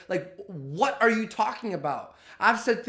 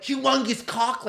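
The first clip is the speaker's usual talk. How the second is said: mock blurt; 5 semitones higher than usual. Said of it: "And then she went".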